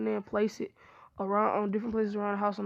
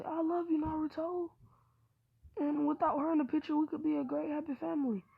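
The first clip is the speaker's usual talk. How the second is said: pleading confession; 6 semitones higher, 4 dB quieter than usual. Acted. Hinata confesses her love to Naruto.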